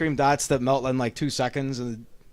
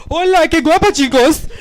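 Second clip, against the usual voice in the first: mock Latina woman, pitched high; Latina accent; 9 semitones higher, 3 dB louder than usual. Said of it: "like, a Latina Consuela woman".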